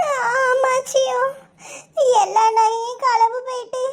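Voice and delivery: slow, tearful wail to grandmother; sobbing out the bad news; crying. Granddaughter weeps over stolen jewels. (அழுதுகொண்டே)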